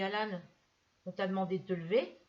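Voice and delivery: stern scolding. Retold or imitated. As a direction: pull the boy up short, firmly. Scolding the boy at table.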